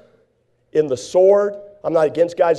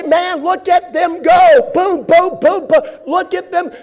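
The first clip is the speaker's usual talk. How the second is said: excited fight fan; 10 semitones higher, slower than usual. Retold or imitated. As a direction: whoop at every punch.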